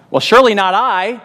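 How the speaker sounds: playing someone sure it isn't them; mock self-assured denial. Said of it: "Even Judas said".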